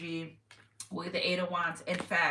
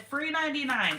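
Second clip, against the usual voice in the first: sung out high and bright, louder; playful catchphrase; 7 semitones higher, 3 dB louder than usual. Real, not acted. To viewers, a high playful catchphrase. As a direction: toss it out like a punchline.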